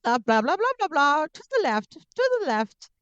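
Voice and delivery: finicky overbearing mother, high and insistent; Ella's mom impression. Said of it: "an accurate impression".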